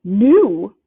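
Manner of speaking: sudden loud shrieked question; a loud aunt's shriek. Acted. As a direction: shriek it as the aunt. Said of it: "shrieked Aunt Petunia suddenly".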